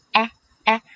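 "哎" sounded as a wide æ, as in cat; isolated open-mouthed æ for "哎"; open A vowel. Shown as a demonstration. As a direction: demonstrate "哎" as a pure, wide æ. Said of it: "发的是梅花音".

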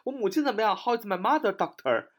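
high-pitched question, dropping on "doctor"; hospital visitor asking. Acted. Relative asking the doctor about mother, high-pitched query. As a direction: ask the doctor after a parent. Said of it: "这是我们常常去医院问的啊".

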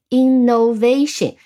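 "innovation" leaning on the syllable va; stress on VA. Shown as a demonstration. Teacher models the same rule, "innovation" stressed on va. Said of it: "重音在vation".

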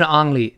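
"only" said wrongly as "ahng-lee"; mistaken "ang" vowel. Shown as a demonstration. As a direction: mimic the learner's 昂 sound at the start of "only". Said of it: "不是only".

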